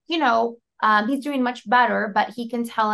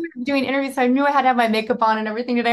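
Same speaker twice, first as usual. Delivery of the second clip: excited rush; 3 semitones higher, 4 dB louder, much faster than usual. Retold or imitated. Gasp, excited retelling.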